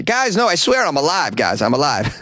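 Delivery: put-on desperate kid insisting; pleading boy. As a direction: beg them to believe you.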